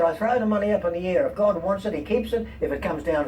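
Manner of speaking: a hint of a sly rabbi; the rabbi slyly explains his method, lightly voiced. Rabbi punchline.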